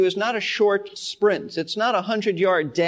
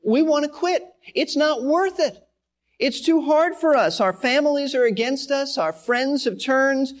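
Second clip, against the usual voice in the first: higher, pleading voice of weary believers who want to quit; mild mock complaint, higher and pleading; discouraged believers; 6 semitones higher than usual. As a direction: lightly voice the ones giving up, plaintive and pitched up. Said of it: "some of them just said".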